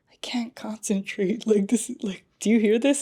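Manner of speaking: hushed mock whisper, easing into soft voice; imitated whisper. Distracted man to his trainer at the gym, imitated whispering. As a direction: whisper it like a confidential aside. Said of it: "he's kinda whispering to his trainer".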